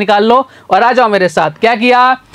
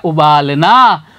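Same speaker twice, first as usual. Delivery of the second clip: उबालना drawn out syllable by syllable; slow spelled-out word; 5 semitones lower, much slower than usual. Shown as a demonstration. Teacher slowly sounds out the finished word उबालना. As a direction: stretch उबालना slowly for the class. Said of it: "क्या बन गया?".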